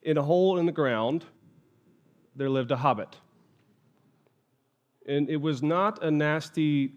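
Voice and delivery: measured, understated storytelling; story narration. A narrator's reading. Lecturer retells a hobbit story opening to an audience, measured storytelling. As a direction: read it like the opening of a tale, unhurried.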